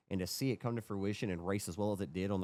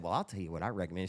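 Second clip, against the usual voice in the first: confiding server; 5 semitones lower, faster than usual. Retold or imitated. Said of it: "She got real personal, like, leaned into me".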